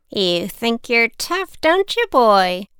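slow, mocking old lady; taunting old woman. Old woman taunting the boy, slow and mocking. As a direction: drag out the taunt, slowly.

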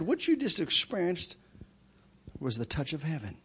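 soft, low, earnest appeal; hushed altar call. Retold or imitated. Preacher telling the men God came for them, hushed appeal. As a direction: bring it right down, gentle and solemn.

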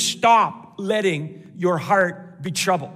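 slow, weighted words from STOP onward; emphatic command. Acted. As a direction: space out the order firmly. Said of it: "Jesus is very emphatic".

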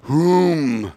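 put-on owl hoot with an English accent; dad-joke English owl call. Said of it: "what do owls in England say".

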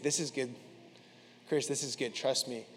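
softly retold calm assurance; chill, confident reassurance. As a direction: reassure a friend softly, quietly sure. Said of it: "he's so chill".

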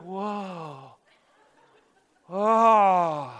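long drawn-out whoa, hushed then swelling; slow, wide-eyed oohing; imitated awe. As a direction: mimic a roomful of awestruck youths. Youths' awed reaction acted out.

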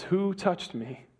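slow, soft searching question; hushed question. Acted. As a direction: ask it quietly, drawn out, as if listening. Jesus asks in the crowd.

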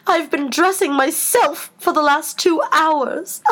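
high, drawn-out lament; put-upon, theatrical queen; groaning Queen. A narrator's reading. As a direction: complain slowly, pitched well up. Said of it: "groaned the poor Queen".

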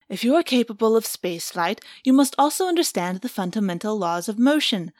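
patient, lecturing alien; Axe voice. Acted. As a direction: explain it patiently like a teacher. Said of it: "in character voice".

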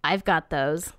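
low creepy rasp; raspy voice. Retold or imitated. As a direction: rasp it like a possessed child. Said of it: "He says in a raspy voice".

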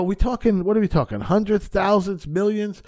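high-pitched frantic questioning; retold flipping out. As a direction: act out rising panic over the price. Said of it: "I'm flipping out".

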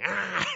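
short pretend squawk; imitated toddler yell. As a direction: playfully mimic a toddler yelling. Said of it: "yelling at me".

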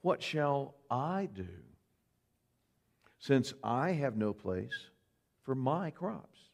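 slow, pondering rich farmer; a hint of a rich man thinking aloud, slowly; lightly voiced rich fool weighing his options; musing rich man. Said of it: "began reasoning to himself".

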